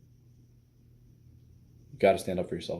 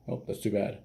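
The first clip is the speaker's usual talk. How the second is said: straight-faced. Shown as a demonstration. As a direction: say it with no hint of a joke. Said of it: "You don't just have a straight face".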